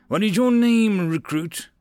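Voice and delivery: loud, high-pitched question; shouted military interrogation; drill officer's demand. A narrator's reading. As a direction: demand it right in the recruit's face. Officer demands shocked recruit's name.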